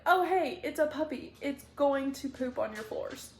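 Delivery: mock-grumble a puppy warning like a gruff mobster; scary mafia man. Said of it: "this scary mafia man".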